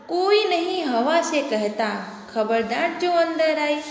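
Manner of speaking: slow, measured reading of a poem line; slow sing-song classroom verse; poem recitation. Shown as a demonstration. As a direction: recite it slowly for the children.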